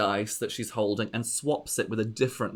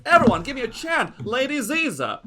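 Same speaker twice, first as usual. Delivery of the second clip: high, loud gushing diva; gloating aunt voice; 13 semitones higher, 4 dB louder than usual. Acted. Lady Ziza taunting the player at the dice table, high gushing diva. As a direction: coo the taunt sweetly, pitched way up. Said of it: "She goes".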